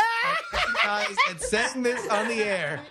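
formal declaration read aloud; mock-solemn contract reading. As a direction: read it out like a binding legal vow. Reads a paid joke ad aloud.

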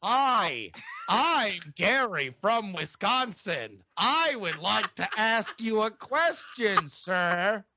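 lightly voiced mock Gary from Wisconsin; a half-hearted take-off of his partner, slow at first; Gary impression. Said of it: "it sounds quite ridiculous when I do it".

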